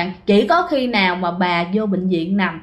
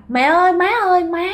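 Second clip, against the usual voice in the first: calling out; 7 semitones higher than usual. Retold or imitated. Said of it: "mẹ cứ kêu rằng".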